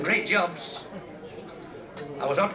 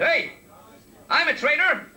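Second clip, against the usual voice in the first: little fella; 9 semitones higher, 4 dB louder than usual. Retold or imitated. Little fella answers back.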